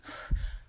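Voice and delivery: quick shallow breath out through the mouth; breathing demo. Shown as a demonstration. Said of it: "like this".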